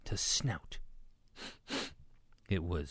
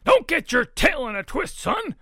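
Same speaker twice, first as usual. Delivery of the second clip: high, loud, folksy bluster; booming Papa pig; 13 dB louder than usual. A narrator's reading. Papa pig tells Ruby to calm down, booming. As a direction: boom it out jovially.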